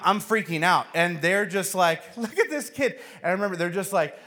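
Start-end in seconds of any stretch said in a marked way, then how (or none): 2.2-3.0 high-pitched mocking onlooker; teasing host voice, much higher; mocking family. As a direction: poke fun at the kid, pitched up. Family mocks the suffering kid.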